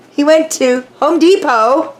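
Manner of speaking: high, laughing storytelling. Real, not acted. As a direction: laugh while telling it. Laughing about garage lights.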